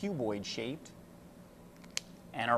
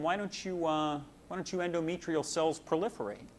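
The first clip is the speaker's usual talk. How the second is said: coaxing hormone voice; 3 semitones higher than usual. Acted. Estrogen coaxing the uterus.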